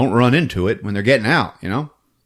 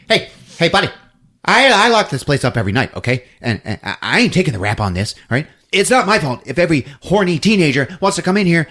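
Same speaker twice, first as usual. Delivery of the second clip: lightly voiced defensive caretaker, rushed; Stephen King; 4 semitones higher, much faster than usual. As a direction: rattle off excuses as a caretaker. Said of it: "Stephen King makes a cameo".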